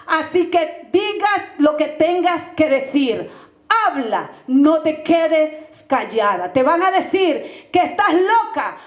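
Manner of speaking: slow, weighty retold prophetic message; solemn prophecy. Man gives the pastora God's message, solemn and measured. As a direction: deliver it slowly, pausing between commands.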